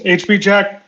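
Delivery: stiff robot voice calling out. Acted. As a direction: announce it like a robot. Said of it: "He shouts out in robot voice".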